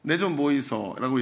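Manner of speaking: lightly imitated Gyeongsang accent; joking Gyeongsang dialect quote. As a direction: say it like a Gyeongsang local. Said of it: "경상도는요".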